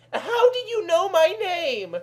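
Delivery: high, startled question; surprised exclaim. Acted. Kelly startled that the stranger knows her name. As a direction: gasp it out in surprise. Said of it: "exclaimed Kells".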